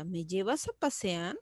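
pregunta suave, PASEAR sube al final. Shown as a demonstration. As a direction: baja la voz y levanta el final de «pasear». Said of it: "haciéndole una pregunta". (pregunta suave con final ascendente)

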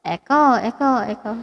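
words ringing with echo; echo effect. Shown as a demonstration. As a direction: test the mic echo. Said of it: "lagyan natin ng echo".

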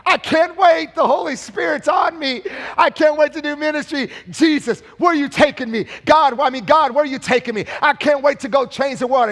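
can't wait to get started; eager excitement. Retold or imitated.

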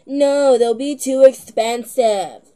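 mock grandma saying no. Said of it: "I don't know why I get my grandma that voice".

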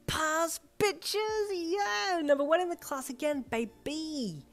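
loud, high whoops of victory; triumphant shout. A narrator's reading. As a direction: crow it like a champion. Triumphant boast after winning the test.

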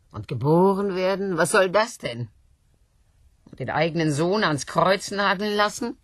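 loud, high outrage at God; indignant tirade. Acted. Woman railing against God's ideas, loud and high. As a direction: rail against heaven.

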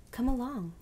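loud, hearty welcome. A narrator's reading. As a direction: call it out heartily, with a lift in pitch. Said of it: "said the Scarecrow heartedly".

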